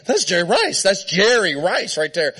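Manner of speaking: starstruck excitement. Retold or imitated. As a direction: imitate a fan losing it. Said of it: "I'm losing it".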